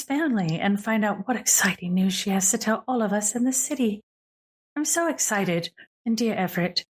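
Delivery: lightly voiced elegant hostess with polite excitement; gracious grande dame, excited. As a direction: play a poised lady, eager but composed. Game master voices the visitor, excited.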